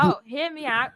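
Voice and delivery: put-on accidental slip into a British accent. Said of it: "I switched to British".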